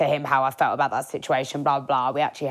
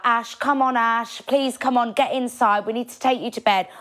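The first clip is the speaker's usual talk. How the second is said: coaxing friends; 5 semitones higher than usual. Retold or imitated. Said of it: "they're like".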